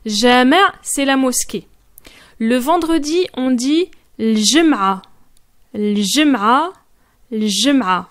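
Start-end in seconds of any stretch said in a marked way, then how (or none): 4.2-8.1 l-jum'a said carefully and a little low; clear l-jum'a. Shown as a demonstration. Teacher showing how to say Friday. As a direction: model l-jum'a slowly. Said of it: "C'est comme ça qu'on dit".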